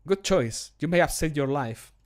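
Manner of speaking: slightly quick, emotionless line reading; devoid of emotion. Shown as a demonstration. Guard line to someone arrested, too devoid of emotion. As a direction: deliver it briskly without much feeling. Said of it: "It's too devoid of emotion".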